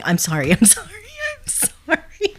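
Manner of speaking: mock apology tailing off high and soft; imitated repeated apology. Imitating an embarrassed caller who kept apologising, mock-apologetic. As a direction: drag out the last sorry, high and small. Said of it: "because she kept going".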